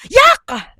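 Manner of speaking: high mock "Yak!"; a sharp high "Yak!" of disgust; high disgusted cry of "Yak"; disgusted yelp. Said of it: "sabi daw nung isa".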